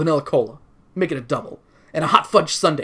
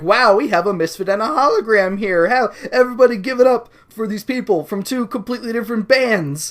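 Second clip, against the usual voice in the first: announcer voice; 6 semitones higher, 4 dB louder than usual. Acted. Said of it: "magician lady on stage is like".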